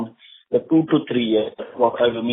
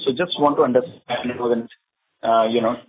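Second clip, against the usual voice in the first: muffled. Real, not acted. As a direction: voice muffled on the phone line. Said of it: "you're sounding muffled in between".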